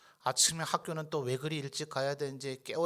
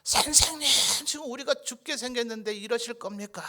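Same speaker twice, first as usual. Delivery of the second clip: high-pitched mock cry of alarm; hammed-up desperate wail to the teacher; acted panicked disciples; 7 semitones higher than usual. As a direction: plead as a terrified disciple, pitched way up. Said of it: "아마 지금 제자들 그랬을 것 같아요".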